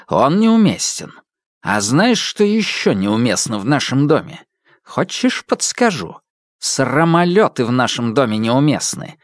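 irritated scolding. Acted. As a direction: shame him with sarcasm. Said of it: "раздражённый Платон Альбертович".

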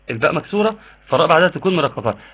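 normal talking voice

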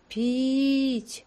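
a voice from another world begging; ghostly thin cry for water; chilling voice. A narrator's reading. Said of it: "леденящий кровь голос, такой тихий".

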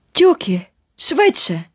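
urgent call. Acted. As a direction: hurry him along mid-run. Fleeing girl urges companion on.

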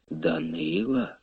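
groaning. A narrator's reading. Blind minstrel hears Danylo was seized, stunned soft moan. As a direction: moan the name in dismay. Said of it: "аж застогнав Кобзар".

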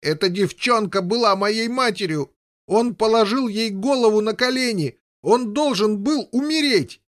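high, loud wild howling voice. Acted. Boy howling in rage at brothers. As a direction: howl it in a frenzy. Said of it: "завыл дурным голосом".

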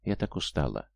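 barely getting the words out, worn out; a weak, exhausted sigh of a line; weakly. A narrator's reading. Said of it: "и добавила слабо".

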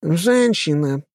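slow, high and nasal, dismissive. A narrator's reading. Aristocrat's companion snubbing the girl, nasal and slow. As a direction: drag the words out through the nose. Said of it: "гнусавым голосом сказала спутница".

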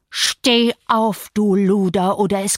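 a mild read-out shout of a threat. A narrator's reading. Heathcliff threatens Isabella, mild shouted threat. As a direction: snap the command at her, lightly voiced. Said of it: "schrie er".

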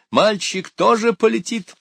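high, loud urgent shout. A narrator's reading. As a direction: shout it out, pitch way up. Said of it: "закричал он". (громкий высокий крик)

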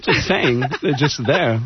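mix a Walken read into the cabbie; Christopher Walken as Crazy Cabbie. Acted. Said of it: "Christopher Walken doing, uh, Crazy Cabby".

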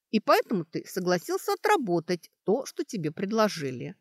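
brisk Sashka reasoning aloud. Acted. Sashka sets out her deductions to the elf, emphatically. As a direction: lay out the case point by point, with force. Detective-style reasoning continues.

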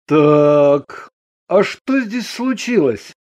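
calm male character voice; calm question. A narrator's reading. Andrei asks his yelling wife what happened, calmly. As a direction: ask it evenly, unruffled. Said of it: "спокойно спросил Андрей".

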